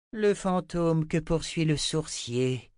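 slow, high, pointed delivery; defiant. A narrator's reading. Seer challenges Richard, defiant. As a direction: draw it out as a challenge. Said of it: "lâcha Chota avec un regard plein de défi".

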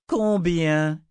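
high, loud grated word; grating demand. Acted. Ulissia pressing the terrified girl, a loud grating demand. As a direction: grind it out at the child. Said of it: "grinça Ulissia".

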